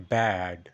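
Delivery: ব্যাড low and loud, long vowel; stretched BAD. Shown as a demonstration. Teacher showing learners the stretch, long ব্যাড. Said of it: "একটু stretch করব".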